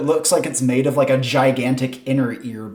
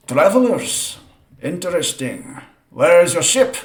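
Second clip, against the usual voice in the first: lightly voiced camp leader, higher on the first word; Gerderon greeting; 5 semitones higher than usual. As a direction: hail strangers with curious, lifted emphasis. Game master voices a Gerderon greeting strangers.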